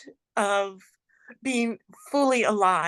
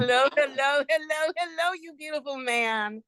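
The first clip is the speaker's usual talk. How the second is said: excited; 6 semitones higher, faster than usual. Real, not acted. Joyful greeting after breathwork.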